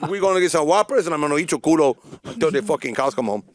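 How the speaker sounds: hammed-up Hispanic accent pickup patter; stupid Hispanic accent. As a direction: put on a goofy Hispanic accent to chat her up. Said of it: "You're still in a stupid accent".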